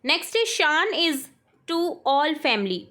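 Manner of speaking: very slow, word by word dictation. Shown as a demonstration. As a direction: read it out slowly for the class to write. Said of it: "teacher dictates sentence". (धीमे-धीमे बोलकर लिखवाना)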